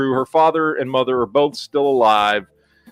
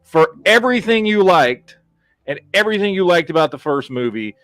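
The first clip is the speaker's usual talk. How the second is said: contemptuous mock address; 3 semitones higher than usual. Movie telling off fans of the first film, mock contempt. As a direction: deliver a mock insult, slowing for the final blow. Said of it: "It is basically saying".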